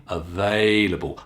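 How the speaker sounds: available with stress on va; available, long A stressed. Shown as a demonstration. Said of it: "I'm stressing the they".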